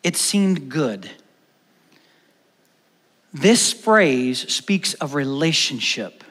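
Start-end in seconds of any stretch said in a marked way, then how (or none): 0.0-1.1 soft, slow, unassuming It seemed good; softly savouring It seemed good; gentle. Shown as a demonstration. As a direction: let It seemed good fall gently and quietly. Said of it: "This little gentle and unassuming statement".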